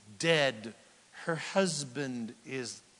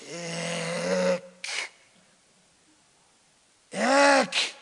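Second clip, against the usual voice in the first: Ik, then a higher louder Ik; theatrical pause; 3 semitones higher, 5 dB louder than usual. Shown as a demonstration. Preacher building suspense before the child's name. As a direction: stretch Ik out with dramatic pauses. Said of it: "Pause for theatrical, um, emphasis".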